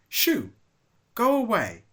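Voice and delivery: high, loud angry yell. Acted. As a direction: shout them off the tree. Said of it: "he yelled".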